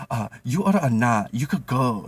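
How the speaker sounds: half-acted dismissive snap; mock curt retort. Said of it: "Jenny's like".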